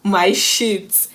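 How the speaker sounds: drawn-out, mock pained cry; misheard yelp. Mom mishears the child's cry of pain, slow mock yelp. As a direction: stretch out the mistaken words slowly. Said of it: "Although my mom heard".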